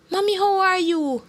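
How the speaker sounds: put-on high-pitched worried child voice; concerned girl. A narrator's reading. Girl phoning her mother, concerned. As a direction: ask like an anxious little daughter. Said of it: "the concerned girl asked".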